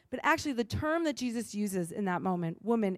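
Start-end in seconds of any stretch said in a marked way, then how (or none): 2.6-3.0 respectful. Shown as a demonstration. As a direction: give "woman," gentle honour. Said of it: "is a term of respect".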